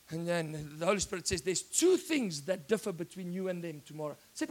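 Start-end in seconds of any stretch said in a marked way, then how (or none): 1.4-4.1 lower, softer divine voice; voice of God. Acted. Holy Spirit answering the preacher at night, low and soft. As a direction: speak as the calm Holy Spirit, low and hushed.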